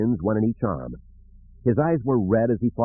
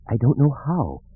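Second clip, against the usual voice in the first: thin, husky and higher; 7 semitones higher than usual. A narrator's reading. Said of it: "in a thin, husky voice".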